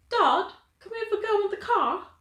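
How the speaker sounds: put-on high, bright British girl's plea to her dad; British accent. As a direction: ask Dad like a young English girl. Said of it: "that's my go-to for, like, a British accent".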